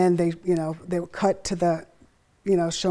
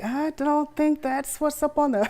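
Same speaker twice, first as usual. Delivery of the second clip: higher, laughing through the quote; laughing mock audience; 7 semitones higher, 4 dB louder than usual. Mom imitating puzzled audience, laughing. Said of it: "the look on their faces like".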